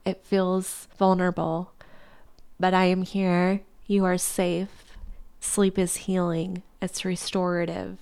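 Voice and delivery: gentle, reassuring read of a letter; reading a tender letter. Acted. Reading love's reply to her tired self, gently reassuring. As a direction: read it like love comforting you.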